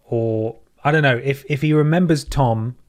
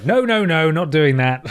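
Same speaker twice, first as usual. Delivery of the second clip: higher-pitched mock refusal in character; comic character impression, pitched up at the start; best dick voice; 4 semitones higher, 3 dB louder than usual. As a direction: put on his voice to refuse. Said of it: "he'll say in his best dick voice".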